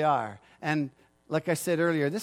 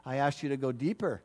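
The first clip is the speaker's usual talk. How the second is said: God's rebuke; 4 semitones lower, 5 dB quieter than usual. Retold or imitated. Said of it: "And God says".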